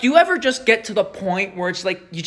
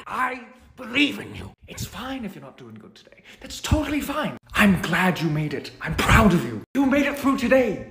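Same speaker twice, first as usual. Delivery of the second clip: reassuring pep talk. Acted. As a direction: comfort a struggling viewer.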